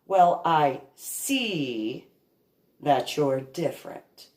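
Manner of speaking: slow, looking-down-on-you drawl; condescending tone. Retold or imitated. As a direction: say it as if sizing someone up. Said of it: "That was the tone of voice".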